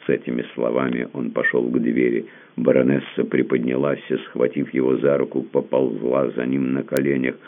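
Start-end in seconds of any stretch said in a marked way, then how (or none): none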